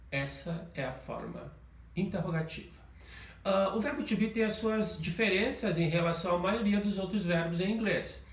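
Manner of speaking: usual speaking voice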